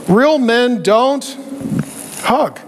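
drawn-out gruff motto; a hint of a stern father; slow macho saying. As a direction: spell out the rule slowly in mockery.

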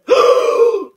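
sharp loud high gasp; shocked gasp. Acted. Shocked reaction to reveal.

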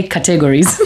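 categories in an East African accent, stress on the last part. Shown as a demonstration. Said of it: "heavy East African accent coming through".

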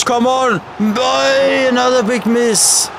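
frustrated shout. Real, not acted. Fan shouting at the screen over a miss, frustrated yell. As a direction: let it burst out, then sink. Fan yelling at missed chance.

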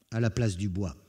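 ordinary delivery

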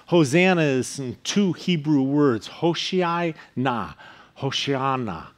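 Hoshiana said slowly, each syllable drawn out; Hebrew pronunciation. Shown as a demonstration. Pastor teaching the Hebrew word to the congregation, slow and careful. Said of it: "that means save us now".

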